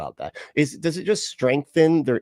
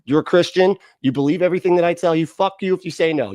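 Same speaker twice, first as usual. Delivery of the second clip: higher, louder, fast bossy parent rant; mock bossy parent; 5 semitones higher, 4 dB louder than usual. Mocking a controlling Christian parent, higher and louder. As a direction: rattle it off like a domineering dad.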